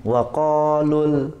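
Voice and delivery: wakolul drawn out very slowly; slow recitation. Shown as a demonstration. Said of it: "Bapak nggak baca nih". (wakolul dibaca sangat pelan)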